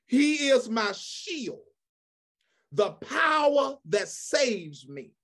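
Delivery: slow, emphatic pulpit reading; scripture declamation. Acted. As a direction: declaim each phrase, stretching the key words.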